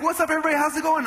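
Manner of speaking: high, loud hello; big-energy morning shout; excited greeting. Retold or imitated. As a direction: burst in and hail the whole office. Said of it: "I'm excited".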